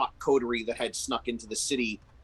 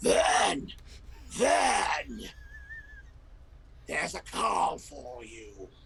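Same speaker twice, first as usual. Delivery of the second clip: pitched-up, ravaged, raspy voice; 6 semitones higher than usual. Narrator voicing a character in the scene, in a cigarette-ravaged voice. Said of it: "a voice that sounds like the throat has been absolutely ravaged by decades of cigarette smoke".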